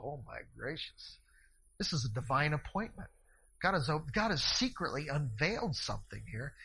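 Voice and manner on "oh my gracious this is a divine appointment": awed thought. Retold or imitated.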